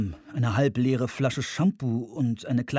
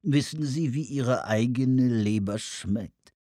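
fuchshafte, ölige Anruferstimme; ölig, fies; slower than usual. Acted. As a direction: sprich ölig und mit gedehnten Worten. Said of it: "Der Tonfall war ölig, fies, fuchshaft". (öliger, fuchshafter Tonfall)

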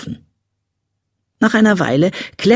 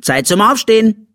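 put-on high, chirpy little-girl voice; cheerful wake-up call; 9 semitones higher, 4 dB louder than usual. A narrator's reading. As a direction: rouse a sleeper with high, eager cheer. Girl wakes her brother. (fröhlicher, hoher Weckruf)

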